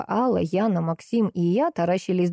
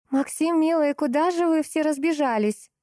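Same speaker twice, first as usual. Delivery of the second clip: sugary call; 9 semitones higher than usual. Acted. Roksana sweetly calls Maxim.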